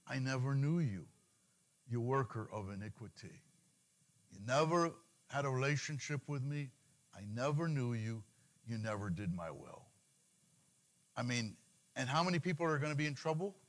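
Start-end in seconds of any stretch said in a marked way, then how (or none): 0.1-9.8 measured, lightly voiced judgement of God; God's rejection. God turns away the worker of iniquity, understated solemn rejection. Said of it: "He's gonna say".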